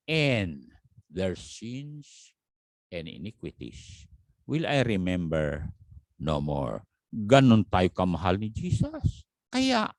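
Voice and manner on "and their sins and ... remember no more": scripture reading. Shown as a demonstration.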